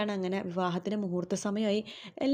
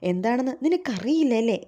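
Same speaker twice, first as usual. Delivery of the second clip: louder, accusing question in a changed voice; retold anger, pushed up and louder; angry question; 3 semitones higher, 6 dB louder than usual. Ashwin confronting Shruthi in his room, angry and louder. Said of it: "Ashwin ദേഷ്യത്തോടു കൂടി തന്നെ".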